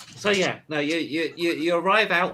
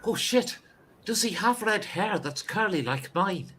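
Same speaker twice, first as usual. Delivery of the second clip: high-pitched amazed outburst; hammed-up sudden discovery; astonished; 4 semitones higher than usual. Guard told of long lost twin.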